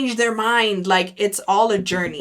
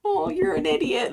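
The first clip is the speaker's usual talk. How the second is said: true meaning; 9 semitones higher than usual. Retold or imitated.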